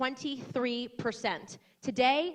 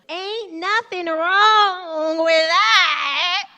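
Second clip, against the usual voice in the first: hammed-up imitation of a put-on Black accent, much higher and louder, very slow; mock a politician's fake accent, exaggerated and drawn out; 8 semitones higher, 16 dB louder, much slower than usual. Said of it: "when she gave that black accent".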